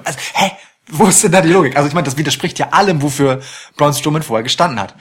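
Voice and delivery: rushed rant without breathing; racing through it breathless; all in one breath. Real, not acted. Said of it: "ich muss kurz Luft holen".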